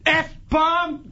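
ranting. Real, not acted. Cursing Mad Max as far as allowed, ranting. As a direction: spit insults in a fury. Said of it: "All that ranting and raving".

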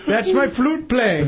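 put-on Indian accent bit. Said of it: "your accent".

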